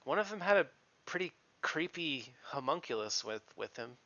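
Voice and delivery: hesitant young woman, lightly voiced; nervous stablehand woman. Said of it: "she goes".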